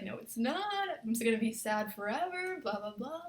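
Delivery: retold woe, drawn up into a wail; lightly hammed-up despair; mock sad whining. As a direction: whine it like an exaggerated sad protest. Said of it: "I was just so sad".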